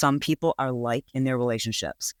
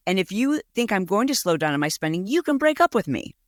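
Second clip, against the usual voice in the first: higher-pitched mock tirade at normal volume; imitated outraged girlfriend; 4 semitones higher than usual. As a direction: play her going ballistic, climbing to a high finish. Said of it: "she was going ballistic on him".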